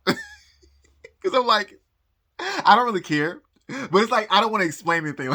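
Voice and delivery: giggling through the words; embarrassed laughing aside. Real, not acted.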